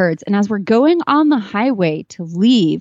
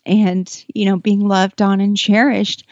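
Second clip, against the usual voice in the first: higher, tight voice holding back tears; choked up; 3 semitones higher than usual. Real, not acted. Telling the host about the lone gelding, real choked-up voice. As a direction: push on while fighting tears. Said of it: "I didn't think I'd get emotional".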